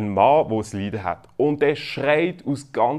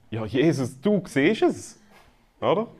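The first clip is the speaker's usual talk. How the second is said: mock incredulous; 3 semitones higher than usual. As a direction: point out the obvious to Jesus, feeling a bit fooled. Acted indignant reply to Jesus. (gespielt ungläubig, gedehnt)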